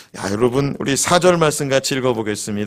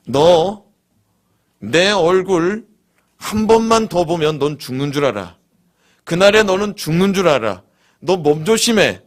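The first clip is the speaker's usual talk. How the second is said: threatening Pharaoh; 3 semitones higher than usual. Retold or imitated. Pharaoh warning Moses never to return, menacing. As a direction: lean in and threaten, word by word. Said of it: "바로가 뭐라고 그럽니까?".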